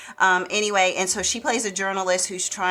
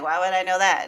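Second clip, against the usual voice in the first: put-on German-Russian heiress accent; faster than usual. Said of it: "has a Russian accent that's in there too".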